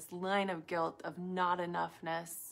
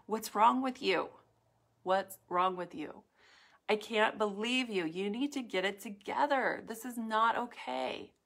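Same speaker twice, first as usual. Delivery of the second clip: mock inner critic; 2 semitones higher than usual. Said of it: "that voice would never say".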